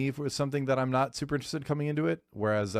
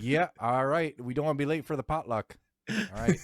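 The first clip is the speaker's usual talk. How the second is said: mock Canadian; 4 semitones higher than usual. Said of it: "Everyone's Canadian".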